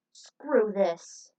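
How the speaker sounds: loud annoyed snap; exasperated loud line; fed-up outburst. Acted. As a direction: blurt it out in frustration. Ayame gives up following.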